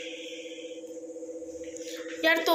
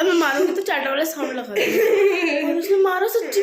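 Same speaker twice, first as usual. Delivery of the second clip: laughing retelling; 3 semitones higher, 4 dB louder than usual. Real, not acted. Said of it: "इसने मेरे कान में क्या बोला".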